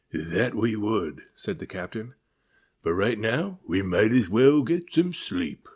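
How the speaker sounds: slow, loud, gruff sea captain; old captain grumbles on becalmed deck; growling captain. Acted. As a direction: growl out your dismay. Captain voiced.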